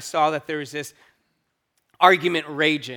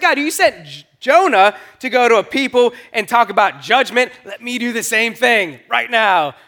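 retold pleading to God; 5 semitones higher, 5 dB louder than usual. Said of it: "And I said".

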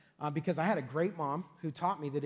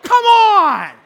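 much higher and louder cry of protest; exasperated outcry; 19 dB louder than usual. Retold or imitated. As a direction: wail it like she hit a nerve. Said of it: "I was like".

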